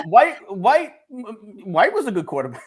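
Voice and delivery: sarcastic. Acted. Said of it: "I can't even say with a straight face".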